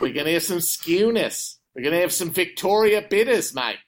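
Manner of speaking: playful Aussie put-on; Australian accent. American playing a local ordering beers, Australian accent. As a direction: keep up a jokey Australian accent. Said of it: "if you were to go".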